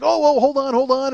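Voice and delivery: hammed-up mild fluster; mock panic. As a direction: imitate a performer scrambling to recover. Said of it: "he's panicked".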